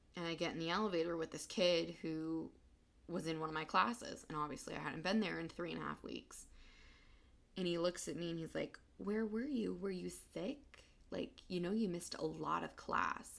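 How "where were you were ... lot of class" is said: play-acted, most condescending talking-down tone. Retelling what a classmate asked in the elevator, mimicking a condescending tone. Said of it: "the most condescending tone".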